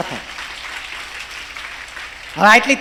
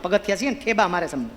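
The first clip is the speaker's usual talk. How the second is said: dropped to a near whisper, much lower and softer; soft, low grieving aside; hushed lament; 5 semitones lower, 9 dB quieter, faster than usual. Acted. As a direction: sink the voice into a sorrowful murmur. Steps lament being kicked.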